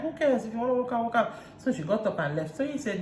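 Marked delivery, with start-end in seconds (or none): 0.0-1.3 higher-pitched retold defiance; mock dismissive. Recapper mimics Chioma telling her to walk out, dismissive. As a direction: imitate a dismissive retort, pitched up. Acted quote from a quarrel.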